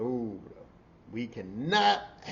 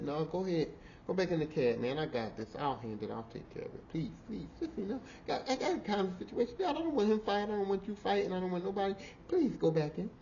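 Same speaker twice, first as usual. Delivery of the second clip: gentle pleading; 3 semitones higher, 5 dB quieter than usual. Retold or imitated. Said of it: "I gently touched her".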